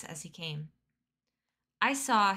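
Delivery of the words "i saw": loud, excited cry, a touch high; shrill shouting. A narrator's reading. Boy racing up to workers, acted shrill shout. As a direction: burst in with urgent news. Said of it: "shouting in his shrill, high voice".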